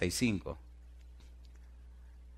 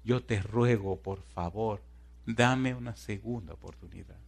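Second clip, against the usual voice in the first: acted pleading prayer; 5 dB quieter, slower than usual. Trapped woman asks God for another chance, softly pleading. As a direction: plead quietly, phrase by phrase. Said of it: "empezó a rogar y a clamar a Dios".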